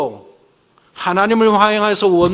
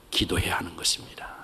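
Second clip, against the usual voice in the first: whisper; 11 semitones lower, 11 dB quieter than usual. Real, not acted. Preacher drops to a whisper.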